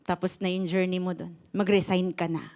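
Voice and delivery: soft, calm voice of God; God's gentle voice. Retold or imitated. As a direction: speak gently as God, settling it. God's voice retold, telling her to resign.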